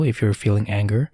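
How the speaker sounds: ordinary talk, nothing marked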